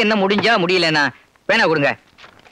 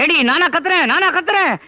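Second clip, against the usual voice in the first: shouting; 4 semitones higher than usual. Acted. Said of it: "திடீர்னு ஏன் இப்படி கத்துறீங்க?".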